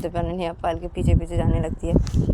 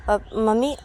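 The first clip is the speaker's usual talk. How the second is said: slightly raised, eager asking voice; daughter asking; 4 semitones higher, 4 dB louder than usual. Acted. Payal asks mummy to send chocolate to her room, eager request. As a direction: ask mummy for a treat, a touch louder. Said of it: "पायल अनन्या की mummy को बोलती कि".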